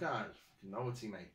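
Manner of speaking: weak put-on Irish accent; lightly voiced Irish bloke; bad Irish accent. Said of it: "That was a bad Irish accent".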